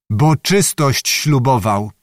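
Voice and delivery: slow, very distinct "czystość ślubował"; emphatic. A narrator's reading. Officer at the girl's ear says "czystość ślubował", emphatic and slow. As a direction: spell out "czystość ślubował" deliberately, word by word. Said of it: "rzekł bardzo głośno i dobitnie".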